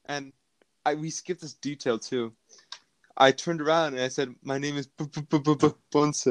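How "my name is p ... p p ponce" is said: mock stutter. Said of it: "when I made fun of you".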